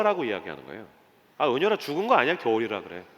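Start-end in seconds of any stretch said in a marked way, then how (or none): none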